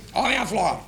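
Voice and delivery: lightly imitated boss's greeting; a hint of impersonated old boss; Doutor Paulo. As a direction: greet affectionately in a put-on voice. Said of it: "tinha uma voz mais ou menos assim".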